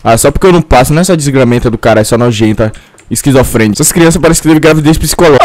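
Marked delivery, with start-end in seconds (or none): none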